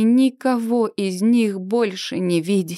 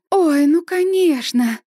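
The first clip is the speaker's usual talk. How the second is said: higher, slow forced brightness; forced casual; 6 semitones higher, 3 dB louder than usual. Acted. Heroine covering a lie to the guests, forced bright. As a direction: fake it breezily.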